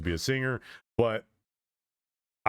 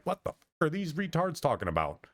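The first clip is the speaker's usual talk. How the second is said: higher, mock bewildered question; baffled outsider; 7 semitones higher than usual. Another species lost trying to communicate with us, mock bewilderment. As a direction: play an utterly lost newcomer. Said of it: "They are lost".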